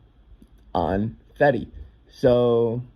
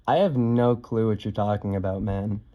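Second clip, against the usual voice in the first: retold ever-so-polite reply, kept calm and understated; exaggerated politeness; 2 semitones lower, 3 dB quieter than usual. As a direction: answer with composed, innocent courtesy. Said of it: "respond extremely politely".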